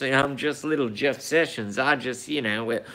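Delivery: lightly put-on Southern drawl, mocking. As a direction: play a meek little Southern boy, mocking. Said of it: "his southern little drawl like this".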